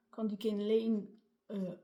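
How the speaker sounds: English product name in a French accent. Real, not acted. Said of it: "Avec mon superbe, euh, accent anglais".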